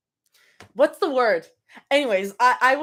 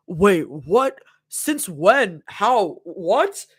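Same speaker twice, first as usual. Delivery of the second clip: Abby voice; 3 semitones lower, much slower than usual. Acted. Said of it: "do y'all like my Abby voice".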